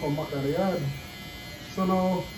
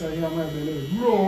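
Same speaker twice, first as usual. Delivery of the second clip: laughing complaint; 2 semitones lower than usual. Real, not acted. Laughing over his growling empty stomach.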